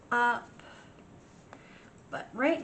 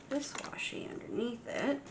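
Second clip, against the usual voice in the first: whispering; 4 semitones higher, 5 dB quieter than usual. Real, not acted. Quiet aside while crafting.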